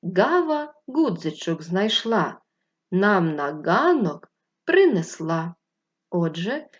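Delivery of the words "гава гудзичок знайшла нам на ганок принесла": put-on slow, sing-song rhyme for children; poem recital. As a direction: recite the little verse slowly. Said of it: "Послухайте вірш".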